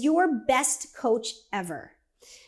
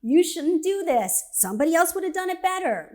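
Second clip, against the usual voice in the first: higher-pitched nagging inner voice, lightly acted; lightly voiced inner critic; 5 semitones higher than usual. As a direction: needle like a self-doubting voice in your head. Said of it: "K-crap radio plays crap in your head".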